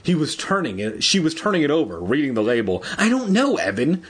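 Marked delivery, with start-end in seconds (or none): 3.0-4.0 high, raised call; shouting. A narrator's reading. Andy calls up to giant Evan, shouting. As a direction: shout it up to someone far above. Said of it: "she shouted".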